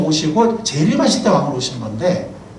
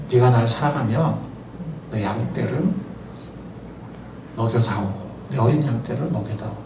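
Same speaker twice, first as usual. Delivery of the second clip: soft, lower voice handing over a mission; tenderly entrust the flock; gentle Jesus; 7 semitones lower, 7 dB quieter than usual. Acted. (베드로에게 사명을 맡기는 부드러운 예수의 목소리)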